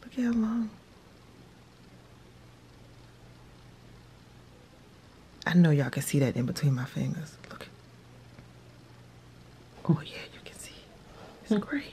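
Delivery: soft whispering. Showing viewers the long hair held between their fingers, whispering. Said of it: "I don't know why I'm whispering".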